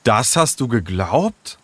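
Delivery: slow, mildly incredulous question; a touch of disbelief, drawn out; stunned. Acted. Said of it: "Leo war fassungslos".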